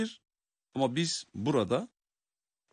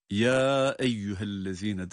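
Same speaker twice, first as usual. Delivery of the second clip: "Ya" stretched long in "Ya eyyühellezine"; long madd; slower than usual. Shown as a demonstration. Teacher showing the lengthening rule, "Ya" drawn out. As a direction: hold the vowel of "Ya" well out, slowly. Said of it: "burada daha çok uzatıyoruz".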